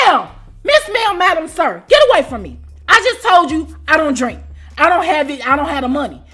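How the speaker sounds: loud, fed-up scolding; exasperated telling-off. Retold or imitated. Shooing the ex-roommate away, exasperated and loud. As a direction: brush her off firmly.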